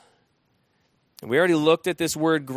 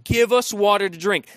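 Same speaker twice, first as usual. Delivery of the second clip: a firm, demanding quote; 3 semitones higher, 3 dB louder than usual. Retold or imitated. People demanding water from Moses, firm and critical. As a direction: make it a strong demand. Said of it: "very demanding, very strong, very critical".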